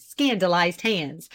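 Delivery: ordinary delivery, nothing marked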